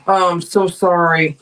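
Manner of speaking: low, subdued condolence; sympathetic. Real, not acted. Streamer hears of a viewer's loved one's injuries, subdued sympathy.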